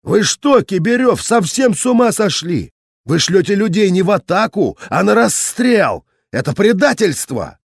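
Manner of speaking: angry accusation. A narrator's reading. Narrator accusing the captain of sending men to die, angrily. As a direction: tear into him for betrayal.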